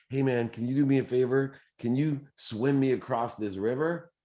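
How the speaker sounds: a hint of a sly scorpion begging a ride; scorpion asking.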